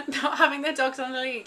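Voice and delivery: loud, laughing complaint; laughing rant. Real, not acted. Laughing at herself while ranting about dog walkers. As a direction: laugh through the gripe.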